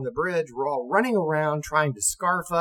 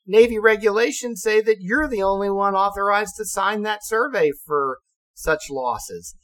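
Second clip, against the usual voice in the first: raised, insistent citing of the rules; urgent insistence; 8 semitones higher, 5 dB louder than usual. Retold or imitated. Officer insisting the captain must sign the survey. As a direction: insist on the regulation. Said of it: "I said".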